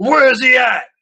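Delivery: very high-pitched, shrill shouting. Voicing an armed dwarf stepping out of a car: shouting. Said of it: "he shouts".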